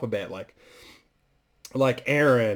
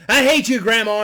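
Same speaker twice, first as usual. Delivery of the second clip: put-on high, loud kid yell; screaming grandson; 10 semitones higher, 8 dB louder than usual. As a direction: scream it at grandma like a furious brat. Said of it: "And gives him the good news".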